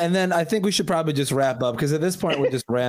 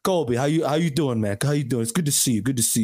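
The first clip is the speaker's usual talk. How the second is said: a light take on his Italian-American dad; a hint of a hearty dad greeting; dad impersonation; faster than usual. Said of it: "my best dad impersonation".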